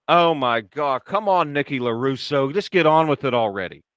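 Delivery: imitating a friend's exasperated impatience; impatient. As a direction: grumble like you want them to hurry up. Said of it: "Logan's getting impatient".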